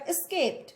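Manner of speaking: एस्केप्ड with the weight on केप्ड; stressed syllable shown. Shown as a demonstration. Teacher marking stress for students, second syllable stressed. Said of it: "stressed syllable क्या?".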